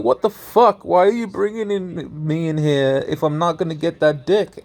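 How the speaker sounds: imitating a pissed-off woman, half laughing; mock pissed off. Woman snapping at the man who won't sleep with her, mock outrage. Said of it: "like, so pissed off".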